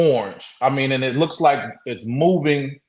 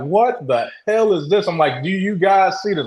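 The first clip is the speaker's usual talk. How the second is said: retold panic, pitched up; panicking; 5 semitones higher than usual. Speaker appealing to friends who can't see it, retold panic. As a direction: raise the pitch in mild, retold alarm. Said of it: "I'm panicking at this point".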